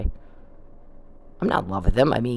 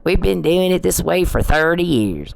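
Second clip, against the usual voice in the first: put-on higher and slow, parroting the old guard; slow mocking parrot of the locals; mocking stuck-in-their-ways voice; 5 semitones higher than usual. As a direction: drag it out like a tired excuse. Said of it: "the other thing I heard in Lubbock is".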